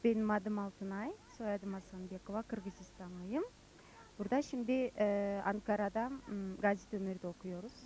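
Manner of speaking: Kyrgyz accent in halting Turkish; learner's Turkish with Kyrgyz accent; foreigner broken turkish. Real, not acted.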